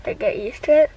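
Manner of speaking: teeth clamped on guard; speaking with mouth guard. Real, not acted. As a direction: mouth partly blocked. Seen 0: green guard held and bitten until 1.6s, then gone.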